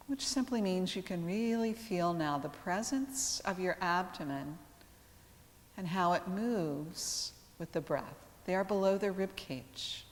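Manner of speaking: calm yoga teacher with long, restful pauses; guided meditation. Real, not acted. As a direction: guide them gently into relaxation, unhurried, letting each phrase settle. Leads yoga relaxation.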